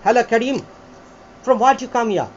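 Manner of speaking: British accent demo, "Hello" run lightly into the name; British "tha-tha" accent. Shown as a demonstration. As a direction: model the first British style of "from where do you come here". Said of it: "একটা হচ্ছে ঠাটা".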